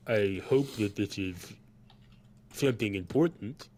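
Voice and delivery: lightly voiced tabaxi college figure; slightly altered timbre, mildly put out; Farguild. Farguild questions Sen about intruders, lightly voiced reproach. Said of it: "he looks at Sen and says".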